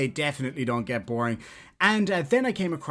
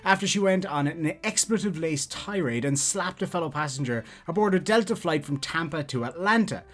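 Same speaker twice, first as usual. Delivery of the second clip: news read; 3 semitones higher than usual. Acted. Reads a news article aloud.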